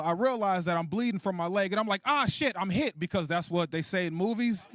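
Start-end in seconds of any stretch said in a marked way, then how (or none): 2.0-3.0 high mock cry of being hit; movie-style alarm. Shot man telling people like in movies, mock alarm. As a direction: announce the wound like an action movie. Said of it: "that's how you gotta let people know".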